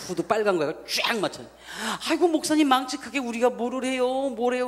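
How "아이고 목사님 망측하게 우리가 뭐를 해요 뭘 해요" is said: higher, bashful grandmother fussing; elderly woman declining the pastor's invitation, flustered and higher; shy old lady protesting. Retold or imitated. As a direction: play the embarrassed old church lady waving it off. Grandmothers refusing pastor's choir.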